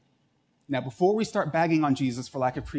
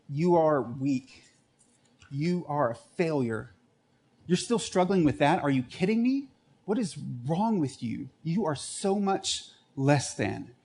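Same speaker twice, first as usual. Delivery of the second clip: accusing inner voice. Retold or imitated. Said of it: "this little voice that likes to talk to us".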